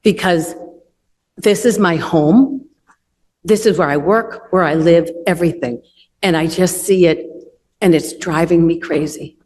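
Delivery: real emotion held in, voice sinking; emotional. Real, not acted. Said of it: "I'm sorry, I get emotional".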